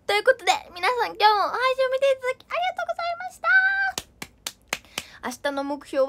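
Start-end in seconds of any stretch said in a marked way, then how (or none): 0.1-3.5 cutesy fast thanks. Acted.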